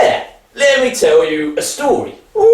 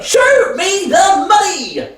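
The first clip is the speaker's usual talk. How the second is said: drawn-out, shouted demand; slow demand; 7 semitones higher, slower than usual. Acted. Son to father, losing patience, a slow shouted demand.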